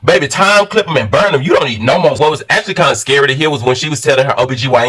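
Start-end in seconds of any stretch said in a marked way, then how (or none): 0.0-2.1 excited outburst. Retold or imitated. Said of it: "So that's why I was like".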